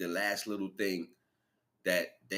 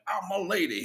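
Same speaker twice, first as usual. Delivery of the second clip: mock lady voice; 12 semitones higher, 6 dB louder than usual. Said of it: "He's like".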